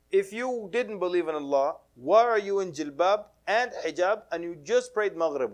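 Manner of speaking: mock-exasperated telling-off; exasperated challenge. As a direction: push back as if baffled by her. Scolding the doubting girl, retold.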